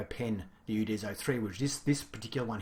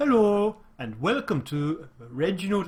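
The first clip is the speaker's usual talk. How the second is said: failed fake Swedish accent, high and raised; 8 semitones higher, 8 dB louder than usual. Opening a review video while admitting a Swedish accent is beyond them: bad Swedish accent. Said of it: "I can't do a Swedish accent".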